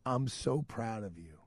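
very soft, slow retelling of a moved father; hushed and slow, holding back emotion; tearfully proud. Retold or imitated. Crying father to son who passed the exam, tearfully proud. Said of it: "And he's crying. He's crying".

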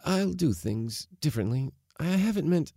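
high, halting apology; pleading, breaking off unfinished; groping for words. A narrator's reading. Daughter promising father to change, groping for words. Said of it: "she groped for words".

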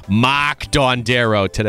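dropped-R Boston "Mark" said "Mahk"; slow Boston accent on "Mark Dondero". Real, not acted. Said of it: "that's my Boston accent coming out".

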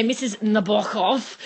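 slow "Missus Nabokov" with the stress on BO; careful new pronunciation. Shown as a demonstration. Host obeying her partner's pronunciation tip. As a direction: try out "Nabokov" deliberately, slowly. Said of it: "for the pronunciation tip".

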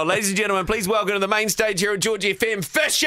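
rousing welcome to the main stage; stage announcer intro. Real, not acted. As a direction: build to a shouted name. Radio host brings guest on stage.

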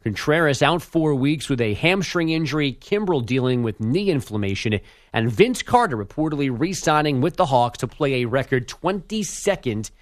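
measured radio update delivery; sports news read. Acted. Update anchor reading league news to listeners, news read. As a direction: read the headlines as a sports bulletin.

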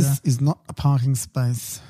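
slow, deliberate mock note-writer; pointedly measured mock complaint; passive aggressive. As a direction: spell it out slowly, passive-aggressively. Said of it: "to be passive aggressive either".

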